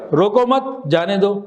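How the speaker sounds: slow, روکو مت together, then جانے دو; pause after مت. Shown as a demonstration. Teacher keeping the same sentence, now pausing after روکو مت. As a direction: move the stop to after مت, before جانے دو. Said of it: "اب جملہ یہی رہے گا".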